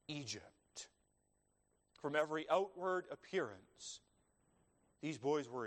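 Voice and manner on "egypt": a sudden hushed whisper on the last word; whispered Egypt. Real, not acted. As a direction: drop to a whisper to land the point. Preacher drops to whisper for emphasis.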